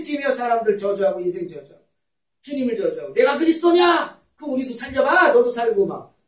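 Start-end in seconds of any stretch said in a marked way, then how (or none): 3.1-5.8 high, loud jeering challenge; railing taunt. Retold or imitated. Defiant robber taunts Jesus on the cross, loud railing. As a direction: shout it up high like spiteful railing. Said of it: "악다구니 쓰는 거예요".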